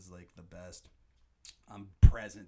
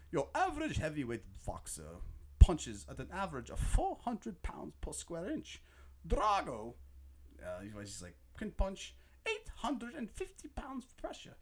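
much higher mock announcer; announcer stats; 8 semitones higher than usual. Fan quoting the fight stats, mock announcer. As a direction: read the stats like a broadcaster.

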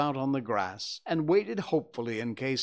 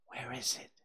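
whispered; 10 dB quieter than usual. Acted.

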